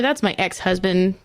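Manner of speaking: "ex-husband" with the weight on "ex"; stress on EX. Retold or imitated. Host voicing Lisa explaining to Jack, stress on "ex" in "ex-husband". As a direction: lean lightly on "ex" in "ex-husband". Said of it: "Emphasis on the ex".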